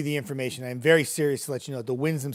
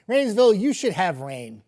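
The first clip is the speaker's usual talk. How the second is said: dad joke delivery; 2 semitones higher, 5 dB louder than usual. Real, not acted. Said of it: "worst dad joke ever".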